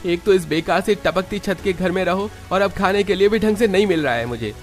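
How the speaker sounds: high-pitched, aggrieved grumbling; offended son-in-law airing his grievances; aggrieved complaint. Acted. Husband grumbles to wife about in-laws.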